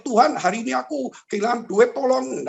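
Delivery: hammed-up plea to God; mock prayer shout. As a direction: imitate someone crying out a prayer. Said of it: "nggak perlu kita teriak-teriak".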